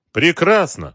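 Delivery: pleased exclamation, pitch jumping up; delighted. A narrator's reading. Boss hearing his men are in place, delighted. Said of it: "обрадовался Георгий".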